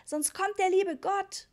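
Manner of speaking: put-on high, slow, loud little-boy warning; child's warning. A narrator's reading. Richie warns Papa that God will come. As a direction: warn him like a solemn small child. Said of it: "schimpfte Richie".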